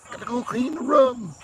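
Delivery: high, slow, drawn-out Boston "room"; old Boston accent. Retold or imitated. Boston transplant recalling his odd speech, exaggerated high accent. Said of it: "I would say, like, weird shit".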